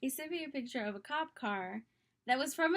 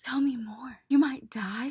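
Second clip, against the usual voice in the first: louder, hammed-up amazement; played-up shock; 7 dB louder than usual. Humoring a boy's tall tale about his mission, played-up shock. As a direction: feign being gripped by a tall tale. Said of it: "I just wanna play it up".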